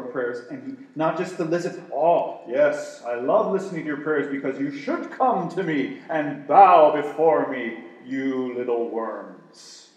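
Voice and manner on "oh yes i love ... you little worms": lightly voiced haughty tyrant God; a hint of a scornful overlord, loud; dark lord. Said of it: "No, no, that's not what he does".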